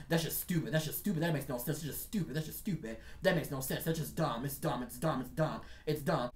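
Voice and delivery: low, repetitive needling under the talk; imitating constant heckling. Boss talking over the worker's conversation, low mock heckling. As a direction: keep jabbing in a mild, dismissive run. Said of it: "he's constantly talking and talking and talking".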